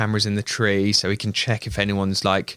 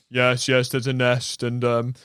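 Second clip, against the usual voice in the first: Henry; 2 semitones higher, slower than usual. Retold or imitated. Henry continues invented bird story.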